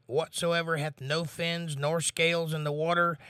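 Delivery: measured Bible reading voice; scripture reading. Acted. Reads scripture aloud.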